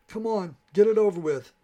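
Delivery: loud, high desperate shout; a high, loud cry of give-up defiance. A narrator's reading. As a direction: yell it out, daring the beast to strike. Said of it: "I wanted to shout".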